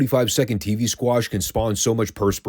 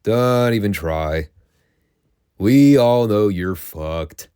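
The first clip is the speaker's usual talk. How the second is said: Tony Schiavone; slower than usual. Retold or imitated. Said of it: "Tony Schiavone just goes".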